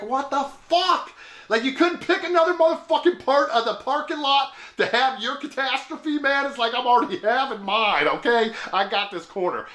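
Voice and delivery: high-pitched, incredulous complaint; exasperated disbelief. Retold or imitated. Stranded driver griping at the newcomer in the lot, exasperated disbelief.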